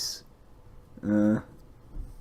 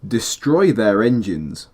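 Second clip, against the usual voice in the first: voice line read; slower than usual. Shown as a demonstration. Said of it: "I'm gonna start again".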